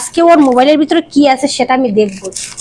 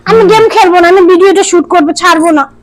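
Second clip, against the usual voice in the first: louder, tearful whining protest; whiny cry; 2 semitones higher, 3 dB louder than usual. Real, not acted. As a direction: whine like you're about to cry. Crying protest.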